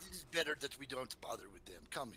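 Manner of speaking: put-on lightly accented, mildly cautioning drow; a hint of a suave foreign guide. Drow warns the party about carrion crawlers, lightly accented.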